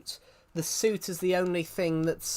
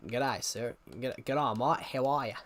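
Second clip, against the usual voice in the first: Australian accent; 5 semitones lower, slower than usual. Shown as a demonstration. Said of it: "That's Australian".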